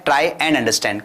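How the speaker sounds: slow, drawn-out English phrase. Shown as a demonstration. Teacher slowly repeating the phrase for students. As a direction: draw it out slowly for learners. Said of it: "समझने की कोशिश करें".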